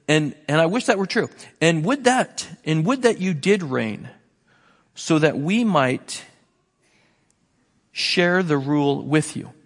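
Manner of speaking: mild mock wish, slowing near the end; dripping sarcasm. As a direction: lay the sarcasm on lightly. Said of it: "This is just dripping with sarcasm".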